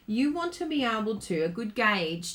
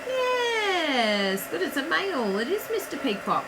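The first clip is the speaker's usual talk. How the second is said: higher, delighted live welcome; excited greeting; 8 semitones higher than usual. Real, not acted. Host spotting viewers joining her livestream, excited greeting. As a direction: greet each arrival with real excitement.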